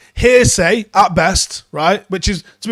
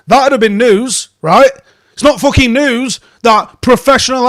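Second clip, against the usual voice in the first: exasperated rant; 3 semitones higher, 4 dB louder than usual. Real, not acted. Fan rants at the Sun journalist over his article, exasperated and loud. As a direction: tear into the journalist in disbelief.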